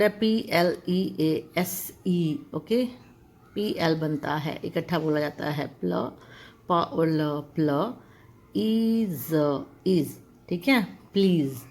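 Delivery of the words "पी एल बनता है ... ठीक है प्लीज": प्लीज split as प्ल and ईज, then joined; sound by sound. Shown as a demonstration. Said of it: "छोटी छोटी sounds में तोड़ करके". (प्लीज को टुकड़ों में जोड़ना)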